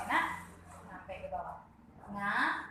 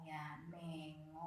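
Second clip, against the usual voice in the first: slow demo read; 5 semitones lower, 11 dB quieter, slower than usual. Shown as a demonstration. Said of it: "harus ngo".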